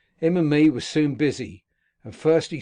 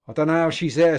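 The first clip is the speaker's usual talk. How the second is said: a louder, panicky protest; terrified shivering; 3 semitones higher, 7 dB louder, faster than usual. A narrator's reading. Dying man pleads to Compeyson about the ghost, terrified. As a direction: shaken voice of a man seeing a ghost. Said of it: "shivering dreadful with the horrors".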